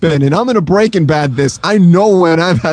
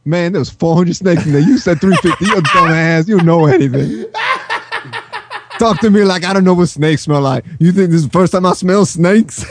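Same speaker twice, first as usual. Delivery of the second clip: snake guy voice. Retold or imitated. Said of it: "I'm gonna talk like snake guy".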